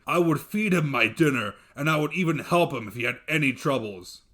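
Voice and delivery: loud, heavy monster voice; a giant making grand promises; booming dev. Acted. Dev telling his wife how he'd treat guests, booming.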